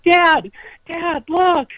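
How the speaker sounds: high, loud excited son; excited kid. Retold or imitated. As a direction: call Dad like an eager boy. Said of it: "And he's like".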